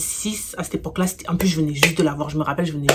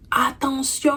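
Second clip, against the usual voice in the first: warning shout; 7 semitones higher, much slower than usual. Retold or imitated. Someone yells warning crossing street.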